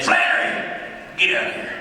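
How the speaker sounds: lightly voiced granddad calling out. Granddad calls his grandchild out on the porch, gruff granddad voice. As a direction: call out roughly like a granddad. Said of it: "My granddad".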